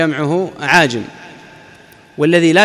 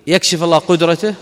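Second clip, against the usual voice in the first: ordinary delivery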